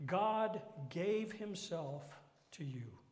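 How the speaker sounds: slow, loud, then whispered; emphatic then hushed; slow emphasis. Real, not acted. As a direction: stretch it out, then drop to a whisper.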